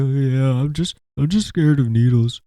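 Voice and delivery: nervous high voice. Retold or imitated. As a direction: squeak it out like a scared patient. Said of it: "I'm like".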